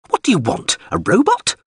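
high, sneering machine voice; sneering drone. A narrator's reading. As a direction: scoff at the captain's demand from above. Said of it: "Its voice sneered".

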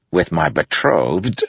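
slow, tight through clenched teeth; forcing the words out politely; gritted teeth. A narrator's reading. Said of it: "said through gritted teeth".

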